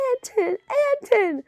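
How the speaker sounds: high-pitched, contained scream; screaming a name. A narrator's reading. Woman screaming from a drug den window, high cry. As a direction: call the name high and urgently. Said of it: "A woman was screaming".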